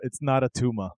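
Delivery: put-on a light Austrian action hero accent; Schwarzenegger line. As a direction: mimic the famous movie line. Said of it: "the line that everyone says".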